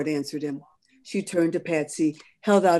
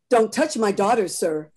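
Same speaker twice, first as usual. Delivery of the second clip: a louder stern warning with DON'T pushed; 3 semitones higher, 5 dB louder than usual. Acted. Mother warning the conductor off her daughter, sternly. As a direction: warn him off her child. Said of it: "May Ford said sternly".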